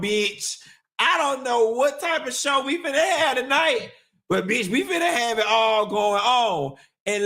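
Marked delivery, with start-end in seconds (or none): 1.0-6.8 excited. Real, not acted. Laughing hype announcement.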